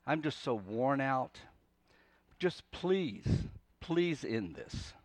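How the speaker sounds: tired prayer, broken by pauses; worn-out plea. Acted. Worn-out Jonah praying to the Lord, wearily pleading. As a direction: plead gently, with little strength left. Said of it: "I get the sense that he's saying".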